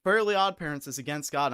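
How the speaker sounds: kids insisting loudly, half-mocked; a touch of a loud schoolyard claim; mild mock insistence. Schoolkids insisting the show is against God, mildly loud. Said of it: "they were like".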